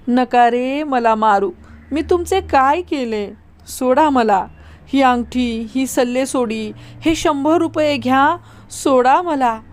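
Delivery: slow, humble begging for his life; pitiful pleading. Acted. Bhau begging the robbers for his life, slow pitiful plea. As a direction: plead meekly, offering everything. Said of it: "दीनवाणेपणाने त्या मांगांना ते विनवीत होते".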